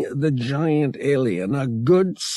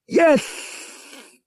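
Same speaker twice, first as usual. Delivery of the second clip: excited yes; 3 dB louder than usual. A narrator's reading. Han's thrilled reaction.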